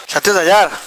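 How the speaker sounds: छत्तीस हजार asked back in disbelief, हजार stressed; disbelieving echo. Retold or imitated. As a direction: repeat the price as if you can't believe it. Incredulous echo of the price. (अविश्वास से दोहराया गया सवाल)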